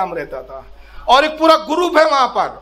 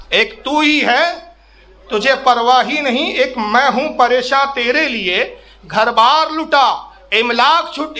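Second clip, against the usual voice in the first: plaintive verse recital. Retold or imitated. Poet's complaint to his saint, recited plaintively. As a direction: recite the couplets as a mild complaint. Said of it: "इन्होंने एक शिकायती अंदाज में".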